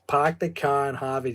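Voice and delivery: muddled Boston accent; a rough stab at a Boston accent; attempted Boston accent. Shown as a demonstration. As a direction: have an imperfect go at a Boston accent. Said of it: "she has the Boston accent".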